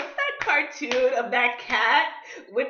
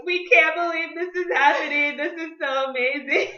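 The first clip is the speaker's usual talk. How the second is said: higher, gushing retold reaction; imitated amazement; 5 semitones higher than usual. Me and Gloria watching them dance, imitated amazement. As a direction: gush like awestruck friends watching.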